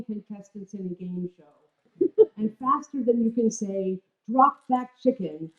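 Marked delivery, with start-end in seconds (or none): 4.3-5.5 mock yell. Yelling at the dogs.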